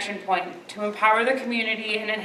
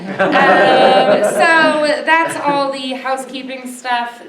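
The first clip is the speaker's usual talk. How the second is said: laughing; 4 semitones higher, 9 dB louder, much slower than usual. Real, not acted. Host laughs ending housekeeping.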